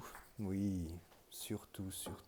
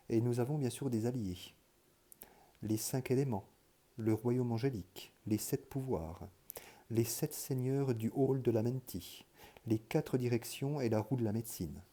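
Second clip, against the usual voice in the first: louder, measured read-aloud voice; reading headings aloud; 5 dB louder than usual. Real, not acted. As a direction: read each heading out firmly, with pauses between. Reads headings aloud from a book.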